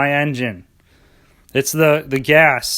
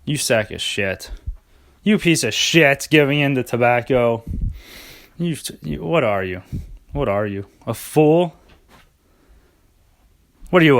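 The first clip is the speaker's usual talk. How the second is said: judgmental put-down. Pretend. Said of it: "look down on people judgmentally".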